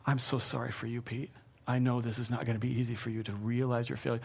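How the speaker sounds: soft, understated compassion; loving sympathy. Acted. Preacher voicing Jesus's thoughts to failed Pete, softly loving. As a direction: speak gently, with mild sorrow. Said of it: "I'm sure it was love".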